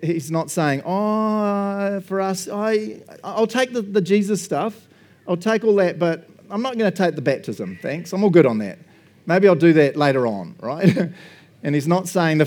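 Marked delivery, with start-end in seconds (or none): 0.8-10.6 casual believer. Retold or imitated. Voicing a half-hearted believer.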